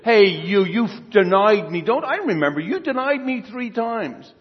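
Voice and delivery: loud, accusing reproach, slowing down; mock scolding. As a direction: rake him over the coals, half-acted. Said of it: "rake him over the coals".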